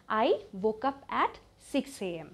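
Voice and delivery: slow but connected, in one go; measured teaching delivery; joined-up model sentence. Shown as a demonstration. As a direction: say the whole sentence evenly without long breaks. Same sentence joined up again.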